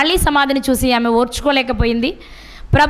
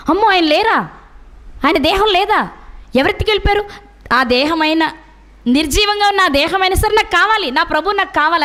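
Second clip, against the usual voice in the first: higher-pitched, imitating a distraught devotee; retold desperate longing; 3 semitones higher than usual. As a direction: plead as if madly attached, acted lightly. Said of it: "ఒక పిచ్చి అంతే". (పిచ్చి ప్రేమతో తపిస్తున్నట్టు అనుకరణ)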